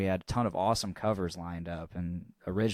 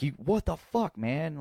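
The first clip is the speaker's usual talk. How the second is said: angry drummer; 8 semitones higher than usual. Retold or imitated. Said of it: "he's like".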